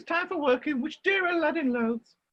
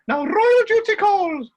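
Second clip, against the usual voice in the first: grand declaration; 2 semitones higher, 6 dB louder, slower than usual. Acted. Dame grandly announces duty.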